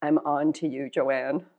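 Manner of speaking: low, knowing tease to oneself; wry smile. Retold or imitated. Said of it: "this smile kind of says".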